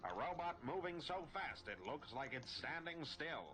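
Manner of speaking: line done in a Scottish accent. Shown as a demonstration. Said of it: "that was Scotland".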